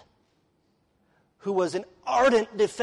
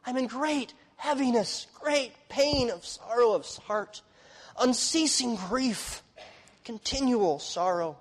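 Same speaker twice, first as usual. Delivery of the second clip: Paul's mourning; 5 semitones higher, slower than usual. Acted. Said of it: "It says".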